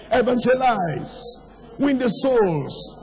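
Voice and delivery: high, insistent preacher's call, phrase by phrase; urgent exhortation. Real, not acted. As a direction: drive each short command home from the pulpit.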